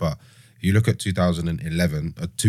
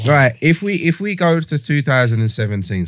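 geezer voice; 7 semitones higher, 4 dB louder than usual. Pretend. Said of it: "geezer voice".

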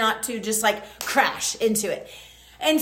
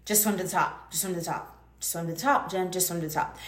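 hushed, much softer inner coaching; urgent self-talk; 7 semitones lower, 7 dB quieter than usual. Retold or imitated. Tangled underwater, urging herself to the surface, hushed urgent self-talk. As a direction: talk yourself up underwater, softly. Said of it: "all I remember is thinking".

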